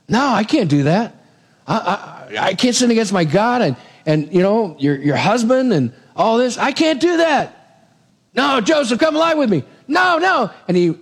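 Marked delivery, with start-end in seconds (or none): 0.1-7.9 pleading refusal. Retold or imitated. Joseph refusing Potiphar's wife. 8.4-9.6 she won't take no for an answer; insistent shout. Retold or imitated. 9.9-10.5 frantic refusal. Retold or imitated. Joseph refusing again.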